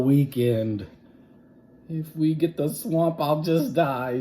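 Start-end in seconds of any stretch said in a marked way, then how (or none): 1.9-4.2 higher and louder, anxious; a kid dreading the substitute; anxious schoolkid; nervous kid. Acted. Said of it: "said one kid".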